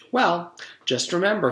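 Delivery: high, sweet dentist voice; a sugary, sinister dentist. A narrator's reading. Dentist voice in story.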